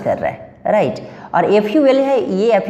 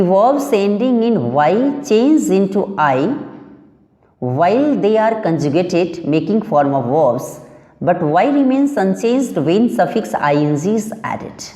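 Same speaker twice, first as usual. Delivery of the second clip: slow, careful dictation of the rule; reading the rule aloud; much slower than usual. Shown as a demonstration. Teacher dictating the rule to students, slowly and deliberately. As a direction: spell out the rule word by word for the class.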